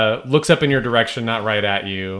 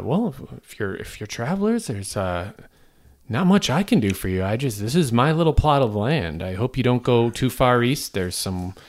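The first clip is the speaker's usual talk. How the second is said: put-on old lady voice. GM plays old lady NPC.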